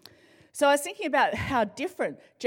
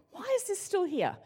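higher, put-on baffled voice; exasperated wife; 8 semitones higher, 3 dB quieter than usual. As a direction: ask it like you found junk again. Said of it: "I'm like".

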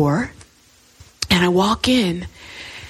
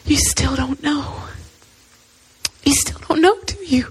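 soft, gentle, knowing question; hushed loving voice of God; 3 semitones higher, 5 dB quieter than usual. Retold or imitated. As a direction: say it tenderly, unhurried, with long pauses. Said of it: "God is so loving".

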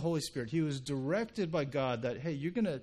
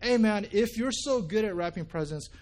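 frustrated yell. Retold or imitated. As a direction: snap out the challenge in retold frustration. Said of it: "Jim yells at him like".

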